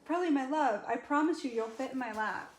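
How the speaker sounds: high, sweet pet talk; a light high coax for the husky; coaxing the dog. Real, not acted. Promising Pearl the husky she will fit, in a light high coax.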